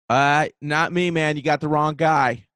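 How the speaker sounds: mock defensive denial, a touch worried; drawn-out "uh", then a mildly nervous denial. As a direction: imitate a worried guy denying it. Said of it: "very clearly was, like, fucking worried".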